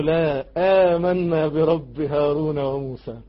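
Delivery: slow, drawn-out recitation; recited declaration of faith. Acted. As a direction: stretch each word in steady conviction. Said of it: "قالوا". (تلاوة ممدودة بيقين)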